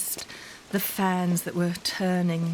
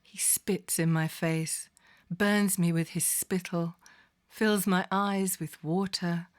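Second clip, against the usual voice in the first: poetic recitation. Acted.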